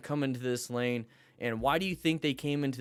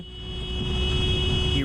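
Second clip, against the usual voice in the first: high drawn-out voice; 4 dB louder than usual. Real, not acted. Commentary voice jump.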